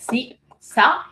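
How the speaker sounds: "సి, సా" drawn out very slowly, syllable by syllable; spelling out syllables. Shown as a demonstration. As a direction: pronounce "సి" and "సా" slowly and deliberately, like teaching letters. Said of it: "దాంతో మొదలవుతూ ఉంటాయి".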